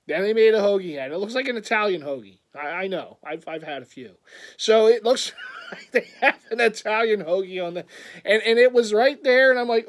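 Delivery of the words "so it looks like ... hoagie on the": laughing. Real, not acted. Laughing while describing.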